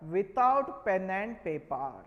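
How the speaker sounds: "without pen and paper" drawn out slowly; emphatic stress. Shown as a demonstration. Teacher repeating the key rule to students, slow emphatic stress. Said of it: "I am stressing the word".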